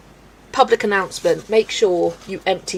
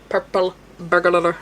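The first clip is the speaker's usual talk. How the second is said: mock Scottish, tripping over the rolled sounds; Scottish accent; slower than usual. Streamer imitating Scottish woman from favourite video, struggling Scottish accent. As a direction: attempt a Scottish tongue-twister, slowly. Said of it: "but she's Scottish, and it's like".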